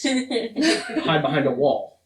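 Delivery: laughing through the words; chuckling while explaining. Real, not acted.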